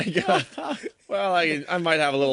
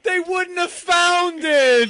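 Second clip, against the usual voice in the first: high, loud, slow words through laughter; laughing hard; 7 dB louder, much slower than usual. Real, not acted. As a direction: wheeze it out while cracking up.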